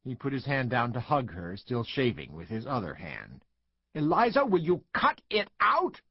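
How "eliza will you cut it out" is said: raised, high call across the house; exasperated mother calling out. A narrator's reading. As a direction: call to the child from another room. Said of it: "Sue called".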